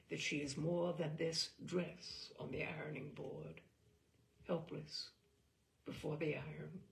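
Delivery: measured, reflective literary reading; story narration. A narrator's reading. Host reading a story to listeners, reflective.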